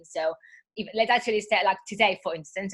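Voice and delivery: hoarse from a cold; husky voice from a cold. Real, not acted. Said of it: "apologize for my, for my, um, husky voice".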